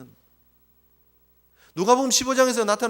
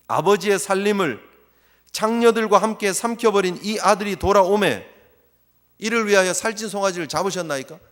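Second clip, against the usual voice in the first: louder accusing complaint; resentful elder son; 5 dB louder than usual. Retold or imitated. Elder son accusing his father, louder. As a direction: spit out the grievance. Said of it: "뭐라고 얘기를 합니까?".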